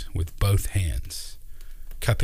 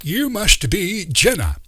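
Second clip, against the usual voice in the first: put-on high, louder eccentric old man musing; wise old uncle; 12 semitones higher, 4 dB louder than usual. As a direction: speak like a kindly mystic uncle teaching children. Uncle Doc's voice.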